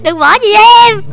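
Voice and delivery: high, loud, hammed-up begging; mock pleading wail. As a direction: wail as if being abandoned, playfully. Begging child not to leave her.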